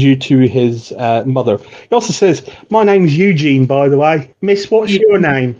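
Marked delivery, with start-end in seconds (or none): 2.7-5.5 put-on lightly raised, curious boy's voice; a hint of a chatty street kid; young boy Eugene. GM as boy Eugene, chatting up the Watch, lightly boyish.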